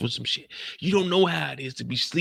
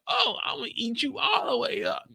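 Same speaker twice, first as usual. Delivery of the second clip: mock lustful falsetto; Pops. Imitating Pops devouring him with her eyes, lusty falsetto. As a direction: squeal it very high as a hungry admirer. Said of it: "That's her talking, not Mo talking".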